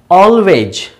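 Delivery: "Always" said slowly with a clear falling tune; pronunciation model. Shown as a demonstration. Teacher has students pronounce adverbs after him, careful pronunciation model. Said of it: "Pronounce these adverbs after me".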